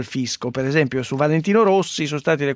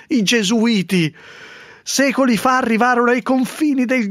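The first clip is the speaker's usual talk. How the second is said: hammed-up high proclamation; mock town crier; 5 semitones higher than usual. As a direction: read it like a pompous crier.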